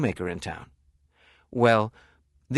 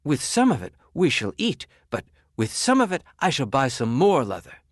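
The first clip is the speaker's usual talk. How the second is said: shoemaker; 3 semitones higher, 4 dB louder than usual. Acted. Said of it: "said the shoemaker".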